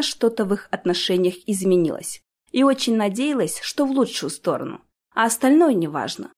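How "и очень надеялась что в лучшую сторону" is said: plain reading voice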